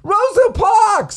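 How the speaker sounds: high, slow excited exclamation; goofy contestant. Pretend. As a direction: gasp the name like a thrilled kid.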